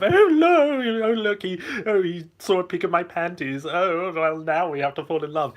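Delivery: put-on high, breathless flustered girl; mock a flustered harem heroine; anime girl voice. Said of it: "Like all these harem animes today, they have".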